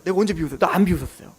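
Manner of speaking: small, low, softened denial; startled denial. Retold or imitated. Sarah caught laughing by God, meekly startled denial. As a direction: deny it meekly, pulling the voice down. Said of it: "사라가 깜짝 놀랍니다".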